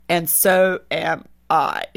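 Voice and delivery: lightly voiced, slow, gentle voice of God; still small voice of God. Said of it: "still small voice of God".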